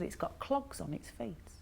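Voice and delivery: slow hushed whisper; slow whisper to a child during a story. Retold or imitated. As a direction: whisper it slowly like a delightful secret. Describing odd dog secretively.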